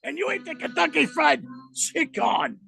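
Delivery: mock snooty Frenchman in a thick French accent; playing a rude Frenchman to his cohost, thick French accent. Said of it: "Speak French to Me, featuring Randy".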